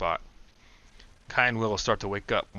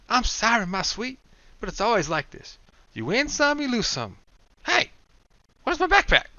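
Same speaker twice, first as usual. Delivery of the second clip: much higher, mock-tender lament to the car; Will's hammed-up grief; 14 semitones higher, 6 dB louder than usual. Will apologizing to his battered Bug, hammed-up lament. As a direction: croon mournfully to the wrecked car, then snap to panic.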